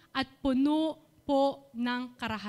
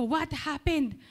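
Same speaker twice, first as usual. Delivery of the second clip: retold questioning with the voice a touch raised; mildly raised voice, slowing on the question; slightly raised voice; 3 semitones higher, slower than usual. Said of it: "medyo lumakas din po yung boses ko ng konti".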